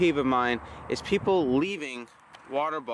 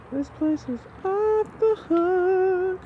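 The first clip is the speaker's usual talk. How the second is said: hyped up; 4 dB louder, much slower than usual. Acted. Hyped shout to camera.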